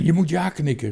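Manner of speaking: high, loud urgent call; frightened call. A narrator's reading. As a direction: call out an anxious warning. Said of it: "riep Bange Toontje".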